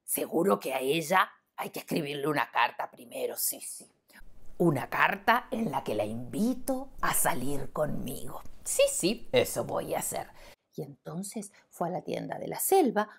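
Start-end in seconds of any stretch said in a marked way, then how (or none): 0.0-10.3 lightly voiced lion, slow and hesitant; shy lion musing. Lion to himself about the lioness, slow shy musing. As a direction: ponder it slowly, a bit lovestruck.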